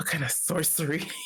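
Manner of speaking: quiet half-whispered voice. Voicing a character who half-whispers to another at a shop counter: half-whispering in character. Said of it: "Arden kinda whispers to him".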